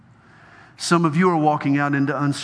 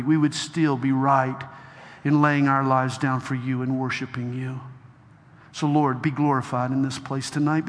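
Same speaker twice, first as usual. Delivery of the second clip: closing prayer. Acted. Preacher praying over the crowd, hushed prayer.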